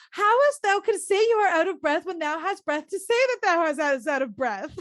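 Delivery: mock Juliet scolding. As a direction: tease the Nurse in old English. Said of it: "And she's like".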